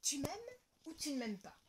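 storybook title voice; title read. A narrator's reading. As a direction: announce the title clearly. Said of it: "je mets mes lunettes et je commence".

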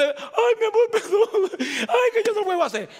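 high, loud mock whimpering apology, with a laugh; hammed-up sobbing lover's plea; crocodile tears. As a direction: fake a teary plea in a shrill put-on voice. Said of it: "lágrima de cocodrilo".

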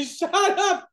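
high mock yell at a screamer; imitated yell. Acting out Callie's scolding mid-ride.

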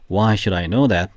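slow drill. Shown as a demonstration. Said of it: "세 번 시작".

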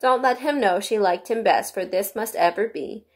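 measured poem reading, slightly lifted; lightly voiced formal reading of verses; verse recitation. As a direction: recite it line by line in metre. White Rabbit reads out the verses.

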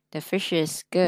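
whispered "The fish is good", slow; thì thầm câu mẫu. Shown as a demonstration. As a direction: breathe the line with no voice. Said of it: "Nói, nói".

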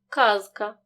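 з in «Казка» kept voiced before к; clear voiced consonant. Shown as a demonstration. Teacher models the word for pupils, clearly voiced. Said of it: "вимовляємо чітко".

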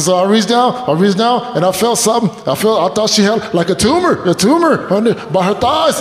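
high, stammering tearful confession; imitating a friend blubbering his story; mock crying. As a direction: stumble through it as if weeping. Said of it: "really crying right now?".

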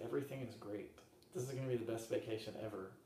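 soft, unruffled retold reassurance; calm reassurance. Traveler answering worried partner after the snow ordeal, calm and soft. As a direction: say it quietly, completely untroubled.

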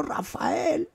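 name stated with exaggerated pitch jump. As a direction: announce the name emphatically. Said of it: "Y le digo".

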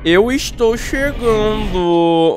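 high, slow spooky sing-song; spooky taunting voice. Acted. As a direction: creep toward her slowly, teasing. (voz assombrada provocante)

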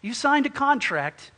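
loud, stern warning; threatening landlord. Acted. Landlord to tenant who can't pay rent, loud threat. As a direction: lay down the law forcefully. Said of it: "he threatens you and says".

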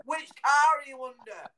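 high, loud call; searching rescuer. Retold or imitated. Searcher calling to trapped child, imitated urgent loud call. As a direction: imitate a worried man shouting under cars. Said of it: "And went".

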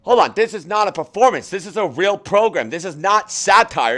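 indignant protest. Real, not acted. Protesting the bot's satire claim.

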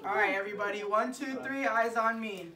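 loud, bright call to a class; kindergarten teacher voice. Shown as a demonstration. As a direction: call the little ones to attention. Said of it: "teacher calling class to attention".

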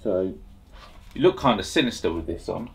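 muffled behind face mask; speaking inside breathing mask; through a respirator mask. Real, not acted. Seen 0: Half-face respirator is worn over his nose and mouth throughout.

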